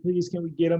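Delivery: tearful begging. Retold or imitated. Imitating crying wife begging for the dog, tearful plea. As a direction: beg with a put-on whine of please. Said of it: "she's, like, crying".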